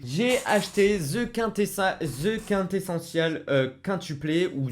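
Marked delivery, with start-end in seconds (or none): 1.0-3.4 "The Quintessential" said slowly in a heavy French accent; French-accented English. Shown as a demonstration. French reviewer stumbling over the English title, heavy French accent. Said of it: "mon accent anglais".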